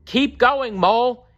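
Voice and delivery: high kestrel voice urging Mole up the hill; calling encouragement. A narrator's reading. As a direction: cheer the mole on from the sky. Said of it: "she called".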